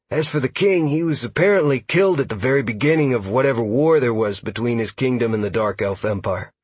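eager elf scout. Acted. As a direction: explain it like an eager lore nerd. Narrator voices elf scout Huxley.

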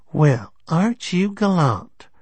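"gallant" stressed on its final syllable, drawn out high; stress on last syllable. A narrator's reading. Teasing woman in a bar, last syllable of "gallant" stressed. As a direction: stretch and stress the end of "gallant". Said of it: "She put the stress on the last syllable".

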